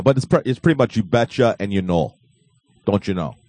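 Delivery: folksy Wisconsin "you betcha"; Wisconsin accent. Shown as a demonstration. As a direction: show off the Wisconsin lilt. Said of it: "your average Wisconsin guy".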